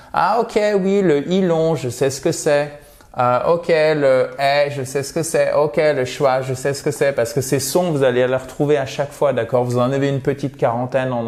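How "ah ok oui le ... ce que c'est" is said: mock learner voice. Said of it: "vous dites".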